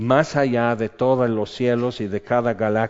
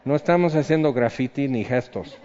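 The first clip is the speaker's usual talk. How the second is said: emphatic rebuttal; 4 semitones higher than usual. Real, not acted. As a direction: shoot down the objection forcefully. Pastor rebutting the objection.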